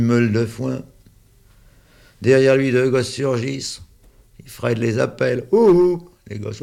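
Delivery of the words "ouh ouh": high loud hoot; playful high call to the children. Acted. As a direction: call out across the field. Fred calls the kids.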